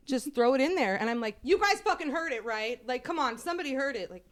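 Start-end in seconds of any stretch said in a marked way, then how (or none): 1.4-4.1 higher-pitched, insistent plea to be believed; retold exasperated appeal. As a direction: re-enact pleading for witnesses. Retold pleading with the family.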